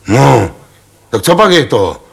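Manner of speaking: loud, high-pitched hoot of a question; loud hoot to the pallbearers; hooting call. Acted. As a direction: call it out bluntly across the crowd. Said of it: "houkl v tom Ostrohradský".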